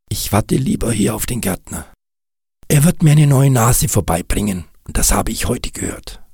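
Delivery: leicht höhere, naive Kinderstimme; Nick, kindlicher Schneemann. Acted. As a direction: spiel den arglosen kleinen Schneemann. Nick's character voice. (Nick erklärt Kass arglos)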